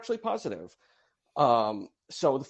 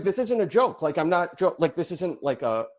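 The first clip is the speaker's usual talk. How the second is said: higher, stumbling, imitated earnest disbelief; insistent bafflement; 6 semitones higher, 3 dB louder than usual. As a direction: quote someone sincerely baffled, pitched up. Quoting an earnest, baffled tweeter.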